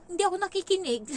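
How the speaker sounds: put-on high, quick kid's voice; high cheeky child voice; childish boast. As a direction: confess it like a cheeky kid. Child confessing he doesn't listen.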